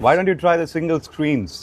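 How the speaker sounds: put-on slow, drawn-out American accent, pitched a bit high. Guest teasing the interviewer in a mild mock American accent. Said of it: "You should change your accent like".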